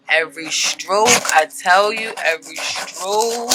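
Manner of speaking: slow, drawn-out relish; playful gushing. Pretend. Tarot reader swooning over card artwork, drawn-out gushing. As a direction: linger on each word in mock rapture.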